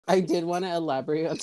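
fast words through giggles; fighting back laughter; giggling. Real, not acted. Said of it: "let's get the giggles out".

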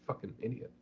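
hushed whisper to himself; muttered insult under the breath. Retold or imitated. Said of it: "just kinda, like, whispering to himself".

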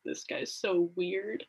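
slow, softly dismissive quote; eye-rolling mock disdain; scoffing. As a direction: mimic a scoff, dragged out and under your voice. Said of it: "scoffing slash, like, rolling his eyes".

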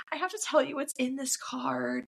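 mildly put-on weird earnestness; mock weird confession. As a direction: retell it with a touch of awkward urgency. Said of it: "she's, like, being very weird".

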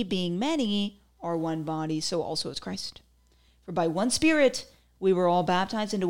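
measured scripture reading with stretched phrase ends. Acted. Reading Corinthians to viewers after gum jokes, as scripture. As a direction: read it out as a Bible verse. Reads a Bible verse aloud.

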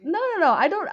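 high, loud, laughing no-no-no; loud laughing denial, pitched high; loud protest. Real, not acted. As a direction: fend off the compliment, loudly.

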